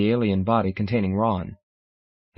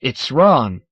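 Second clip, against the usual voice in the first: loud startled exclamation; exclaiming; 6 dB louder than usual. Acted. Dan recognizing Ron, a loud exclamation. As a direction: blurt out the name in shock. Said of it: "Dan exclaims".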